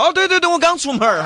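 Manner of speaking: high laughing fluster, caught out; laughing, flustered cover. Retold or imitated. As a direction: blurt it high through a laugh. Client caught, covers awkwardly.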